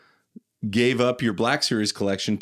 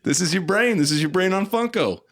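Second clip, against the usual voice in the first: PSA announcer; 6 semitones higher than usual. Retold or imitated. Anti-drug PSA parody.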